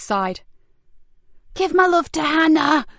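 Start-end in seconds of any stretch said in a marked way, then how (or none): 1.5-2.8 loud taunting call; mocking shout. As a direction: shout it back while fleeing. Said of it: "shouted Frankie as she fled".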